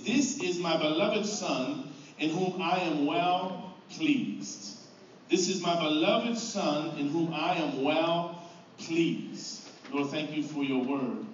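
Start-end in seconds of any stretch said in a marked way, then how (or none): 0.0-9.7 slow, solemn heavenly voice; voice of God. Acted. Pastor reading God's words over Jesus at baptism, slow and solemn. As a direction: let each word fall slowly, like a voice from heaven. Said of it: "a voice came from heaven saying this".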